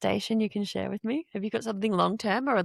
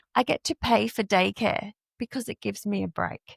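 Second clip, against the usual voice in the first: ordinary delivery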